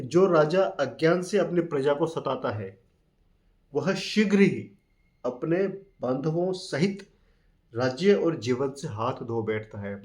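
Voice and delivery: slow, deliberate recital of the verse; teacher reciting a verse slowly to students; slow scripture reading. Acted. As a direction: read it out like a sacred text.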